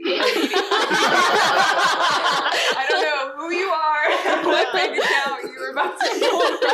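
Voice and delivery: mock the suspicious clerk while laughing; laughing retelling. Bank clerk quoted, laughing.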